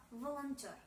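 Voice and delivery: "volontaire" as Russian "valantior", O sounding A; O pronounced as A. Shown as a demonstration. Teacher demonstrating the vowel rule in volontaire, O as A. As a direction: say "volontaire" the Russian way, va-lan-tior. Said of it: "mais plutôt comme A".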